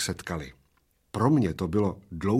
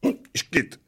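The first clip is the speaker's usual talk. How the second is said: sputtered hiccup; 8 semitones higher than usual. Acted. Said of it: "vyprskl maličký".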